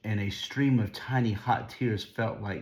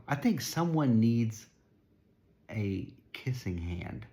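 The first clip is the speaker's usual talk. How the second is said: warm and inviting. Acted. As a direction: draw the child in gently, slowing down. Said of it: "she said in a voice that was warm and inviting".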